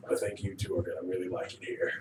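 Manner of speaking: deep, low, knowing bouncer. Acted. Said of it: "he goes".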